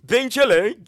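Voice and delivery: loud excited yell of Bing Chilling; shouting. Pretend. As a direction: belt it out. Shouting the meme name.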